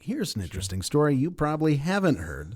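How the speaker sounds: lightly affected storyteller; slight affectation. Acted. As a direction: introduce a curious tale with a touch of polish. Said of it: "a little bit of affectation".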